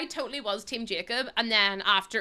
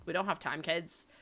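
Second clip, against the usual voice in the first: hushed reply; 6 semitones lower, 6 dB quieter than usual. Retold or imitated. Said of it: "I'll be like".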